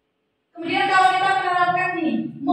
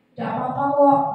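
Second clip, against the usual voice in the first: friendly reassurance. Shown as a demonstration. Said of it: "Nada suaranya itu akrab".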